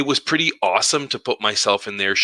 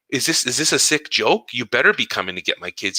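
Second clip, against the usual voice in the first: mock indignant disbelief; 3 semitones higher than usual. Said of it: "I'm like".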